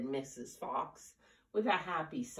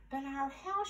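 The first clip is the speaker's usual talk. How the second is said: much higher, a different woman's voice; wife's high voice; 11 semitones higher than usual. Acted. Wife objecting to Tim about the tree, high voice. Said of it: "she said".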